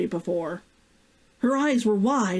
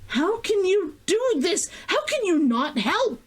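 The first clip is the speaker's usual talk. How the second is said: snarled; 10 semitones higher than usual. A narrator's reading. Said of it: "Himiko snarled".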